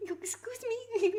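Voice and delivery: put-on high, slow caricature Italian accent; mock Italian accent. Streamer poking fun at mi scusi, mock Italian accent. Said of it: "in, like, a racist accent".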